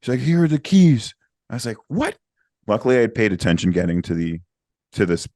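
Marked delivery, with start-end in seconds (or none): 0.2-1.1 put-on drunk guy. 1.9-2.2 high, rising shocked question; shocked what. Retold or imitated. Shocked reaction quote.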